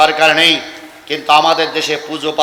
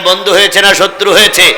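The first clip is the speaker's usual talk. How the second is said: louder rallying question; 4 dB louder than usual. Real, not acted. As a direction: put the question forcefully to the crowd. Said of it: "জোরে বলেন". (জোর গলায় শ্রোতাদের প্রশ্ন)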